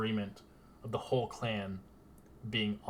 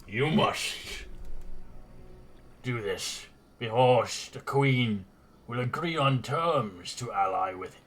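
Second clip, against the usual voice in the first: lightly voiced lizardfolk envoy, proud and louder; lizardfolk speaker; 4 dB louder than usual. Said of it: "as he says".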